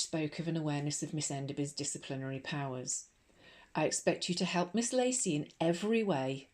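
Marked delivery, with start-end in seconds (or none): 3.7-6.5 slight edge. Acted. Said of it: "with a slight edge to her voice".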